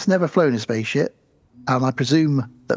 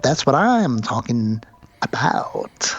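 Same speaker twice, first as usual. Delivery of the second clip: low, breathy murmur trailing into a whisper; lightly voiced eccentric drawl, fading to breath; Jeff Goldblum impression; 3 semitones lower, slower than usual. Mocking a famous actor's quirky delivery, low and breathy. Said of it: "Jeff Goldblum going".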